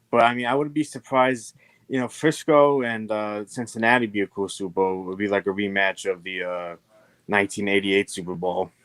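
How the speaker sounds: faint, hissy mic sound; quiet, far from the mic; quiet voice loud hiss. Real, not acted. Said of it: "but just a little quiet".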